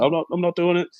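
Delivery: a five-year-old refusing through tears, mock; imitating crying kid. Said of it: "Started crying".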